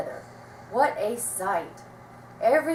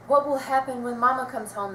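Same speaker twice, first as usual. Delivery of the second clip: put-on frightened children crying out; scared cry; 4 semitones higher than usual. A narrator's reading. Scared children fearing Mama's return, crying out. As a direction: voice the scared kids' worry. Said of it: "they cried".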